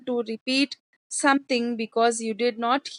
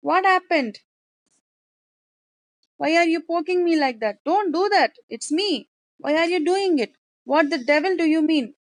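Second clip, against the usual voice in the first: raised, fast, exasperated father's scolding; angry father; 3 semitones higher than usual. Acted. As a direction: scold like an irritated old father. Teacher acts angry father.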